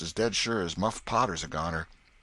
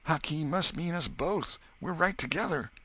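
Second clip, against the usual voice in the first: much higher, louder frantic repentance; boy sure he is doomed, higher and louder; despairing boy; 7 semitones higher, 4 dB louder than usual. Acted. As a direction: wail about being a goner.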